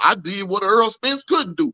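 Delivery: high, cocky boast of a fighter; boastful fighter impression. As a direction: brag like you just won the belt. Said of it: "he gonna act like he beat Mike motherfucking Tyson".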